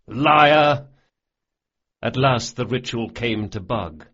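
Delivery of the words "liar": loud, higher mocking bellow; jeering shout. A narrator's reading. Thieves jeering at Carlo's toast, shouting. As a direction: bellow it to mock the boast.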